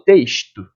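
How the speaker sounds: "texto" said as "teishto"; "texto" with a sh in place of s; sh sound for X. Shown as a demonstration. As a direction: put a hushing sh before the t in "texto". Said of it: "representando um som de X".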